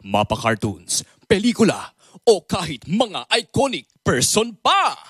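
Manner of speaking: mildly deep news anchor read; newscaster impression. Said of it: "nakakagaya ng iba't ibang boses".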